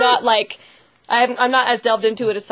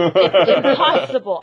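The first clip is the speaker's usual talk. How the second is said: laughing; slower than usual. Real, not acted. Repeated, laughing, slow.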